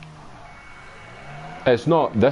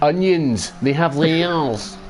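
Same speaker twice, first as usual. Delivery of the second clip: higher-pitched mock Scottish, drawn out; fake Scottish accent; 4 semitones higher, much slower than usual. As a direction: do a knockoff Scottish movie accent. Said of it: "Mike Myers' fake Scottish accent".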